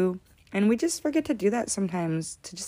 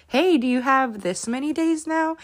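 high-pitched imitation of an eager kid; excited son; 8 semitones higher than usual. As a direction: quote an excited child, pitched up. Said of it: "how excited he is about".

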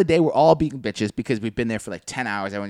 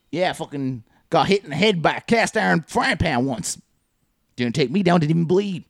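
lightly put-on Southern-ish accent; coworker's near-Southern accent. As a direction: play the tough coworker with a faintly Southern accent. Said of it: "it's not a southern accent".

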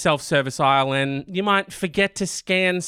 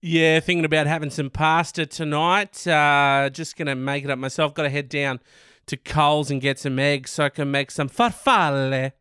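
put-on low, casual chat ending in Italian-accented farfalle; caked-on Italian accent; 3 semitones lower than usual. Mimicking someone planning pasta, Italian accent on farfalle. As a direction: talk normally, then overdo Italian on farfalle. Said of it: "people really just cake on that accent".

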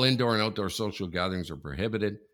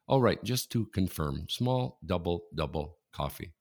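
slow, even, lightly robotic order confirmation; fake Siri voice; 2 semitones lower than usual. Drive-through worker faking a Siri to the customer, mildly robotic. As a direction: imitate a drive-through guy pretending to be a machine. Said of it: "like a Siri".

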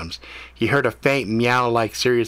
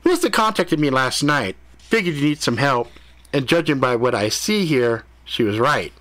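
high excited cat voice; brash high-pitched critter; cat character voice; 4 semitones higher than usual. Acted.

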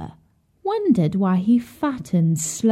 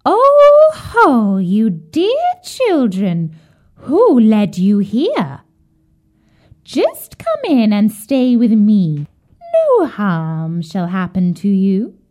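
put-on old witch voice; 5 dB louder, slower than usual. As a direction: croon it sweetly like a sly old witch. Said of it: "the old woman shook her head and said".

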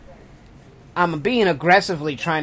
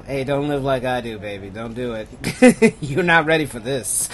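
smooth talker; 3 semitones lower than usual. Pretend. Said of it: "the number one advice I tell people".

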